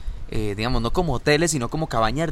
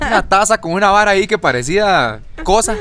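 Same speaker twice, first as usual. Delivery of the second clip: hablando entre risas; riéndose; 7 semitones higher, 6 dB louder than usual. Real, not acted. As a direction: contalo muerto de risa. Cuenta riéndose del almuerzo. (entre carcajadas)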